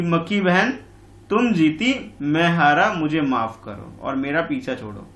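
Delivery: lightly voiced weary lion, slowed down; a tired, annoyed plea; fed-up lion. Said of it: "परेशान होकर के, ऊब कर बोल रहा है".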